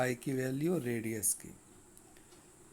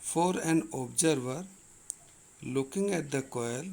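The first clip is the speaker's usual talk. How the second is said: slow, measured reading of a textbook problem; reading the question aloud; much slower than usual. Acted. Teacher reads the physics question to the class, slow and deliberate. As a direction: read each clause slowly so students can follow.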